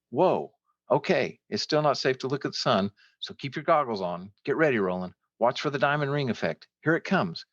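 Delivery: high, giddy calls; excited shouting. A narrator's reading. Sam guiding his friend through the eclipse, excited shouting. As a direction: call out like an eager kid on Christmas morning. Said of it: "Sam's whooping and shouting startled me".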